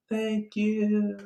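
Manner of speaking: high thanks fading off into the distance; a call from someone dropping off a cliff; falling away shout. Retold or imitated. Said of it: "on his way down goes".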